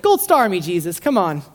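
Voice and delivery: a teacher's pet begging for praise; mock eager disciple. Philip fishing for praise from Jesus, mock eager. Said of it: "sounds like such a good question".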